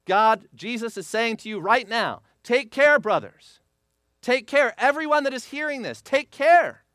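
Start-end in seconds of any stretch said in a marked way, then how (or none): 2.4-6.8 urgent warning. Acted. Preacher voices Jesus' warning.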